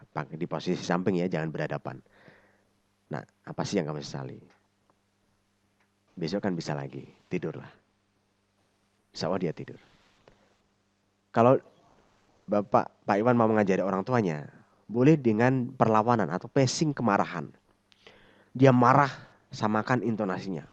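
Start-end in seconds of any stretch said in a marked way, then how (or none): 3.1-7.7 low, gentle reassurance; caring, soothing. Shown as a demonstration. Counselor at the child's side, low and caring. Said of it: "bisa membantu dia dengan care". 18.6-19.1 raised intensity. Shown as a demonstration. Showing matched angry intensity.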